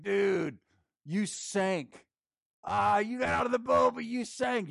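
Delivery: high, loud mocking ribbing; teasing buddies. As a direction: rib your friend for sinking. The boys mocking Peter.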